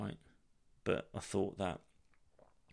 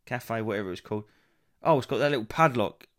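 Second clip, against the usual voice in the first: mock hopeful then let down; 3 semitones higher than usual. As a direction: act out finding the locked Wi-Fi. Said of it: "You go".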